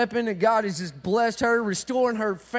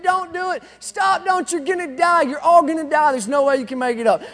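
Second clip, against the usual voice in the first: higher, louder mock crowd yell; preacher voicing frogs screaming at climbers; 3 semitones higher, 5 dB louder than usual. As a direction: yell warnings up the tower. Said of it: "are screaming".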